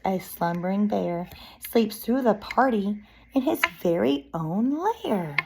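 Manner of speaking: put-on expressive read-aloud to young children; picture-book narration. Reading a bear story to children, lively narration. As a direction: read it like story time, lilting.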